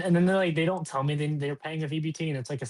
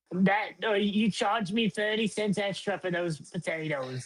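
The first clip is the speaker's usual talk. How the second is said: put-on slow complaining old lady; 6 semitones higher, slower than usual. Voicing the old woman.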